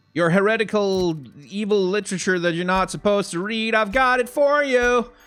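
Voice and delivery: very loud, high, carrying announcement. Telling a character that the forbidden book has been found: saying it very loudly. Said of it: "saying it very loudly".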